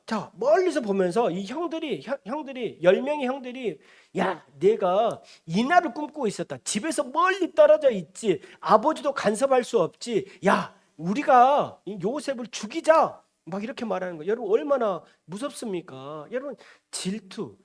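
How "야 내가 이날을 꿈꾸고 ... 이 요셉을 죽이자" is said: acted angry rallying, building louder; vengeful plotting. Brothers plot to kill Joseph far from father, vengeful. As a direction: urge the brothers on, landing hard on the last words.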